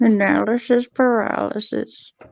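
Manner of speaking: animated-film wizard voice. Repeating a phrase back to the group: voice like Merlin from the cartoon. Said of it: "sounded a lot like Merlin from freaking the cartoon".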